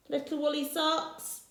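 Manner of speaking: socks rising, a touch incredulous; doubtful question. Acted. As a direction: query the item in disbelief. Rossetti questions the list.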